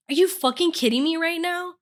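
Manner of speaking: hammed-up grumpy outrage; woken-up girlfriend mocking her own annoyance; mock irritated. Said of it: "And I'm like".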